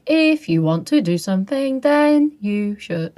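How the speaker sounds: slow, lingering mimicry of an odd voice; drawn-out imitation. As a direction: hold on to each word, stretched and sing-song. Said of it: "he holds on it".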